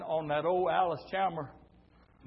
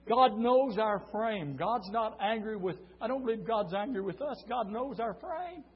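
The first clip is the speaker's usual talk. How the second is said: tender preaching; 5 semitones higher than usual. Acted. Preacher gently reassuring the congregation. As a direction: comfort them gently.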